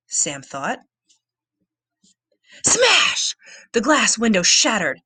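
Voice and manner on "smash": loud high crash cry; smash. A narrator's reading. Narrator voicing the window shattering, loud and high. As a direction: shout it out like breaking glass.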